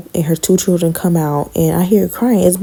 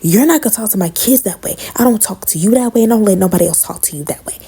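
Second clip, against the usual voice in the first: raised, scolding mock of the aunt; higher pitched scolding imitation of the aunt; mocking angry aunt; 4 semitones higher than usual. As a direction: throw her righteous scolding back at her. Angry aunt confronting her.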